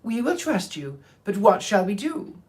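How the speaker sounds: lightly voiced mouse queen.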